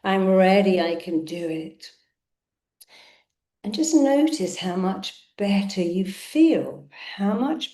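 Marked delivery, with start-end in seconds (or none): 0.0-1.9 firm affirmation. Shown as a demonstration. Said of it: "State it, affirm it".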